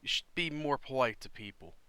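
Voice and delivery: loud reproach; scolding. Acted. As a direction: tell them off for bad manners. Character scolds rude party member.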